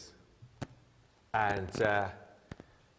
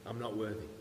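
mock false humility; faster than usual. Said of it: "false humility sometimes".

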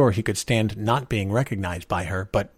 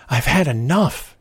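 slow, louder, higher, slightly winded plea; gasped; 5 semitones higher, 5 dB louder, slower than usual. A narrator's reading. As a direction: gasp it out after running downhill. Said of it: "he gasped".

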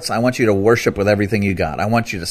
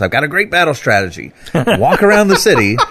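laughing; 4 semitones higher than usual. Retold or imitated. Retells God's battle plan laughing.

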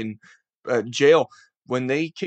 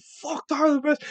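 rant. Retold or imitated. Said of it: "I started ranting".

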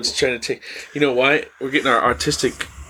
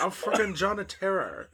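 higher, softer fake Bangladeshi scammer; mock Bangladeshi accent; 5 semitones higher, 9 dB quieter than usual. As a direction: introduce yourself in a bad Bangladeshi accent. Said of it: "they always say fucking".

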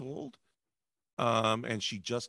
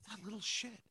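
muttered to himself; 7 semitones higher, 10 dB quieter than usual. Retold or imitated. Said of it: "I'm just thinking to myself".

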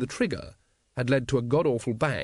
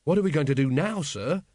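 a touch of anxiety; mildly worried question; anxious; 3 semitones higher than usual. Acted. Carrot asks his captain for orders, anxiously. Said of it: "said Carrot anxiously".

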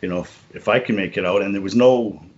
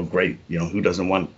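mock delight, laughing at the end; deadpan fake joy over a therapy gift; sarcastic thanks breaking into a laugh; 6 dB louder than usual.

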